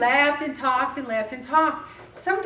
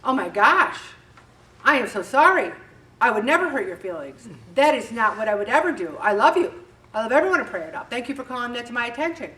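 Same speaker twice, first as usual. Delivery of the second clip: gushing, louder apology; Ellen McCauley's reaction; 5 dB louder, faster than usual. Retold or imitated. To a hurt friend, a gushing apology, a bit louder. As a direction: overdo the sweet sorry. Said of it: "here's Ellen McCauley's reaction".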